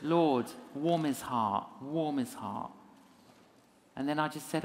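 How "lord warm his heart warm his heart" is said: slow, gentle plea to God; silent prayer. Retold or imitated. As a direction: pray it slowly and simply. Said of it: "in my heart, I was praying".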